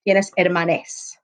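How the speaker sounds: "hermanes" said slowly with a clear -es ending; slow, careful "Tienes hermanes" with the e spelled out; gender-neutral ending. Shown as a demonstration. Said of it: "you would put an E at the end".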